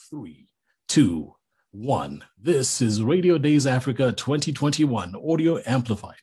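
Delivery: measured countdown into a polished station ident; radio imaging voice. Shown as a demonstration. Voiceover artist demonstrates his conference ident to delegates, radio imaging voice. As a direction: announce it like a radio event sting. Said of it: "before each session saying that thing".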